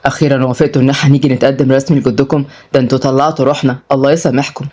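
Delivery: lightly voiced man, low and quick, mildly happy; happy suitor. Murad to the girls about proposing, mildly happy. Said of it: "ومراد اتكلم بسعادة".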